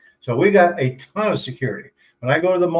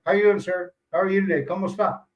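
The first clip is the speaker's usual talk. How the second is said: imitating a polite greeting; 4 semitones higher, faster than usual. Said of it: "when I go down there".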